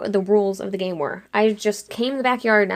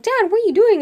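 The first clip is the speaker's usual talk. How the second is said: high, louder mock-panicked cry; acted-out frantic question, pitched up; alarmed protest; 12 semitones higher, 5 dB louder, faster than usual. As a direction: shout it at your dad in mock alarm. Alarmed shout at dad driving away.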